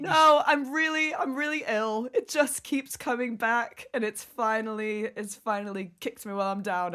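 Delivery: hoarse, losing her voice; rough, worn-out sick voice; smoker's rasp. Real, not acted. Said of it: "I sound like I've been smoking for twenty years".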